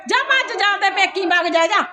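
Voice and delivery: sharp order to get out; angry dismissal. Acted. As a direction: drive her away in exasperation. Orders her off to her parents.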